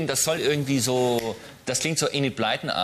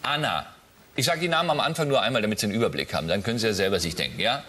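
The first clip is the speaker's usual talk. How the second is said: normal talking voice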